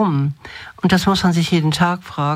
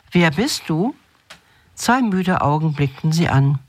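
measured storyteller reading with pauses between phrases; fairy-tale narration. A narrator's reading. Host reads a hopeful fairy tale for a serious theme, storytelling. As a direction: read it aloud as a gentle, earnest fairy tale.

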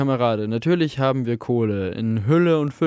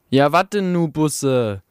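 impatient heckler; 2 semitones higher, 3 dB louder than usual. Acted. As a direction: call out from the crowd, a bit impatient. Impatient heckler calls from the hall.

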